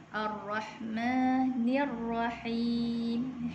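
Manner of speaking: slow, measured tajwid recitation; Quran recitation. Shown as a demonstration. Teacher recites the second verse for students. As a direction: chant it slowly with long held vowels. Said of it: "bacaan untuk ayat yang ketiga ni ialah".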